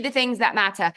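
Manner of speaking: light mock British accent; a touch of put-on British. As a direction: slip lightly into British on "matter". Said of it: "Emily Roberts' British accent is in my head".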